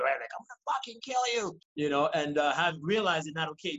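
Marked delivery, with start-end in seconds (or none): 0.4-1.6 retold scream. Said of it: "he was screaming at me".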